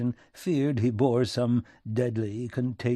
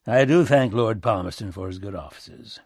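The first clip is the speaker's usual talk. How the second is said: lightly voiced folksy statesman, direct; a hint of country plain-speaking, getting to business; rustic American president; 6 dB louder than usual. Lincoln answers the envoy.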